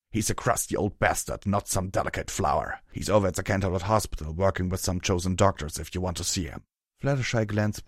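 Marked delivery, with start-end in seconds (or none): 0.1-6.6 put-on a touch of a rough old smith; lightly gruff, dismissive character voice; Hammer Chain's gruff voice. Hammer Chain dismisses worry about Red Brand, mildly gruff.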